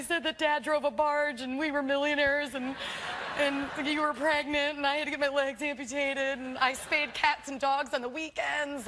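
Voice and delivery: mock confession. Daughter confessing her lies to mother, high mock confession. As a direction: spill it all in a high, pleading retelling.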